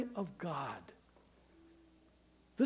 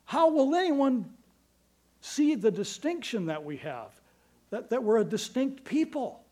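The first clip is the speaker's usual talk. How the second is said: retold plea, raised at first then easing; Moses pleading; 4 semitones higher than usual. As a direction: make an earnest, mildly urgent appeal. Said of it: "Moses is pleading with God".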